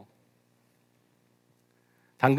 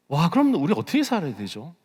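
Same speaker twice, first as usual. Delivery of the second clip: higher-pitched, taken-aback wondering; dismayed question; 5 semitones higher than usual. Real, not acted. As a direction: ask it with an alarmed "wow". Alarmed question, then repeated low. (당혹스러워 높아진 물음)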